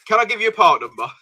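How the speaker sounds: lightly put-on posh phone voice; polite posh caller, barely changed; posh telephone voice. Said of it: "my posh telephone voice".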